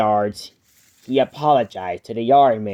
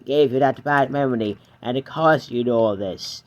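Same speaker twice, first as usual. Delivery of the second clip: Edward's voice. Acted. Edward voiced, lower, kind.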